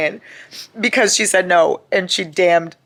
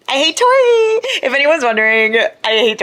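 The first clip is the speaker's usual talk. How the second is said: shrieked hate; 9 semitones higher, 6 dB louder than usual. Real, not acted. Fan screaming her hatred of a character, loud high shriek. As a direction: stretch it into a furious shriek. Repeated louder higher take.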